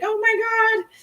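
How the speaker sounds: high, startled "Oh my God"; retelling a client's high shocked exclamation; shocked gasp of a client. Retold or imitated. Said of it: "She was like".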